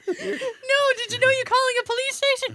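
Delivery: high, fast mock scammer voice; hammy stage actor. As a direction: ham it up like a stage villain. Mocks scammer voice.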